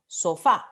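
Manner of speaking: "sofá" with the last syllable FÁ stressed; stress on the final A. Shown as a demonstration. Teacher giving an example of a tonic ending, "sofá" stressed on FÁ. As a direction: put the weight on the end of "sofá". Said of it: "Si la palabra termina en una vocal tónica".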